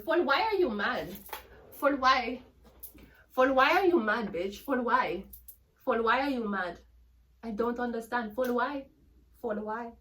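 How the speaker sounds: high, sing-song jeering at a rival; mocking taunt. Real, not acted. Taunting the jealous rival reader, mocking and high. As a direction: needle her over and over, high and teasing.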